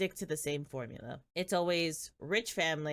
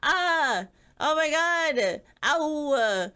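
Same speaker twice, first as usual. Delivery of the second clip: hammed-up cries of pain, high and loud; mock pained wail; 7 semitones higher, 8 dB louder, slower than usual. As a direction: wail like you were shoved down the stairs. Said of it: "She sits on the ground ... and goes".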